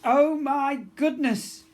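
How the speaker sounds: high, slow, gasping; gasped. Acted. Mum seeing the bones, high, slow gasp. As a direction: gasp it out in shock. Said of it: "Mum gasped".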